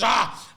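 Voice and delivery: frustrated "ah"; exasperated burst, imitating; flustered cry. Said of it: "in a fluster".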